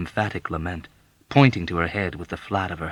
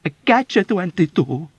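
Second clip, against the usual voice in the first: wailing; 12 semitones higher, 7 dB louder than usual. Acted. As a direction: stretch it into a mournful wail. Old woman repeating her answer.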